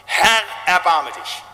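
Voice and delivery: slow, drawn-out plea; pleading cry. Retold or imitated. Pastor repeating the sinner's cry for mercy, slow plea. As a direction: stretch each word as a begging cry. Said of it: "Kyrie eleison schreit".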